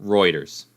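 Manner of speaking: "Reuters." said as ROY-ders; corrected pronunciation. Shown as a demonstration. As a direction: repeat "Reuters." with a clear oy sound. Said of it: "So that's how you say it".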